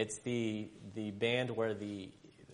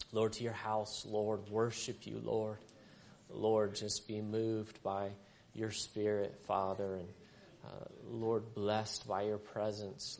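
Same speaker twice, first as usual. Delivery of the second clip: hushed, earnest prayer voice. Acted. Leads congregation in prayer.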